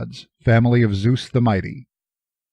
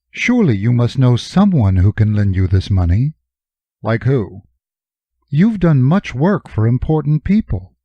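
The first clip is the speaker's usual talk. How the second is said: Jory's voice. Acted. Jory suggests lenders.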